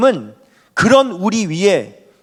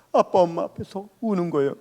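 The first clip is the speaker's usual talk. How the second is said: laughing; 6 dB quieter than usual. Real, not acted. Laughs recalling childhood crying.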